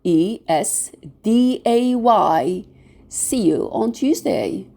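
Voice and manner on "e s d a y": T U E S D A Y, one letter at a time; T, U, E, S, D, A, Y as separate letter names; spelled letter by letter. Shown as a demonstration. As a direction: spell out T U E S D A Y for learners. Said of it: "We spell it".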